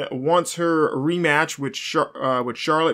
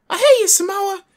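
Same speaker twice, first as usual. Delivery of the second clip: high, louder imitation of a kid yelling hate; a kid at ringside yells hate, high mock shout; mock kid heckler; 6 dB louder than usual. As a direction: squeal it like a heckling child. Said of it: "one kid that's like".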